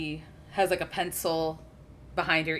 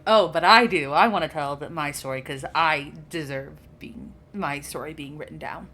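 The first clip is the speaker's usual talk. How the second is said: pestering inner voice; 6 dB louder than usual. Acted. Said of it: "there's a voice inside of her".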